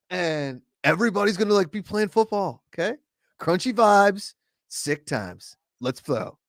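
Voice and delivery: mock West Coast surfer bro accent; a hint of West Coast stoner announcer; lightly put-on West Coast bro hype. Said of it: "whatever comes of the Pac-twelve".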